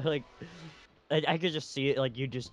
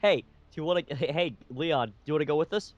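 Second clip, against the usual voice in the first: calling out; 5 semitones higher than usual. Acted. Acting out recruiting Leon.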